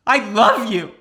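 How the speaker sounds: high, loud mock-tearful outburst; imitated crying. Crying girlfriend declares love to boyfriend, mock-tearful wail. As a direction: wail it out as a hammed-up sob story. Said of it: "Continues to cry".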